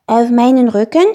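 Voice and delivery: little dragon taken aback; astonished question. A narrator's reading. Dragon learns he is to carry them, astonished. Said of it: "wunderte sich Spekulatius".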